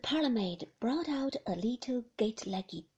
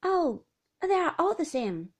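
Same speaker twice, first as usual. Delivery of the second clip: higher, louder weary lady; Beatrice; 6 semitones higher, 8 dB louder than usual. Acted. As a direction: shrug it off as hopeless. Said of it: "said Beatrice".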